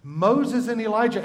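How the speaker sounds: teacher confirming the answer; emphatic answer. Shown as a demonstration. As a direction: proclaim the answer.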